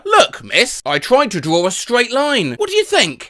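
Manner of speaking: hopeful student asking, rising pitch; acted student. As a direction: ask the teacher eagerly. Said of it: "I tell my teacher".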